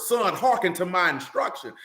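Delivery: a hint of a stern father lecturing; lightly voiced Solomon telling his boy to listen; father instructing son. Solomon instructing his son, mild stern father voice. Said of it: "that's why you see that so much in Proverbs".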